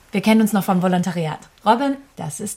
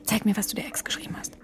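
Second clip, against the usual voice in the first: demanding whisper; 5 dB quieter than usual. Acted. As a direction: whisper an order. Demanding the phone in secret. (fordernd geflüstert)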